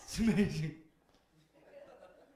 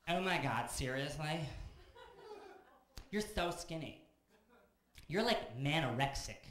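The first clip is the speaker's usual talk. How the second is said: put-on valley girl; 4 semitones higher, 4 dB louder, slower than usual. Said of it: "she goes".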